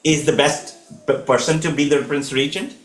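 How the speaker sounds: high, desperate pleading; pleading king. Acted. King begging his wife to spare his son, high desperate plea. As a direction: beg her, voice lifted high throughout. Dashrath begging Kaikeyi for Ram.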